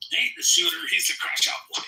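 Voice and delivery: yelling like a hype man over the mic; hype shout. Real, not acted. Host hyping up the troll on stage, high excited yell.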